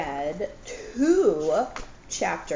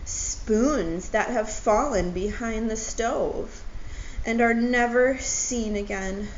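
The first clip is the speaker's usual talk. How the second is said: tearful Owl; 2 semitones higher than usual. Acted. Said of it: "Owl began to cry".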